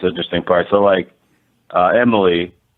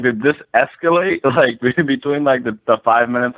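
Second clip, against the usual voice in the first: startled disbelief; 6 semitones higher than usual. Retold or imitated. Recalling shock at the court officer's rifle, pitched high and incredulous. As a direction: pitch jumps way up in surprise. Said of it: "it was just surprising".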